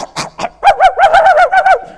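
high loud mock cough of the dog; imitated dog cough. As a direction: cough it out like the dog coming back to life. Dog revived, mimicked cough.

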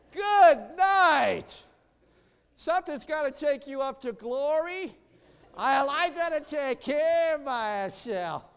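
slow, drawn-out shouted "Good night"; fiery preaching shout. Real, not acted. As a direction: belt it out from the pulpit. Preaching at full force.

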